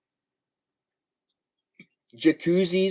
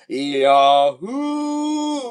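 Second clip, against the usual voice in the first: excited yahoo; 7 semitones higher, 5 dB louder than usual. Real, not acted. Excited exclamation.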